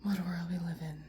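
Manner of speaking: whispered aside. Real, not acted. Vlogger musing to herself on the world, whispered. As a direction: say it to yourself, barely voiced. Wry aside after laugh.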